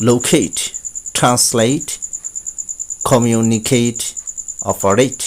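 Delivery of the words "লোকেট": লোকেট ending in a clear এইট; correct pronunciation. Shown as a demonstration. Teacher correcting a common error, says লোকেট with এইট. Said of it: "আসলে লোকেট নয়".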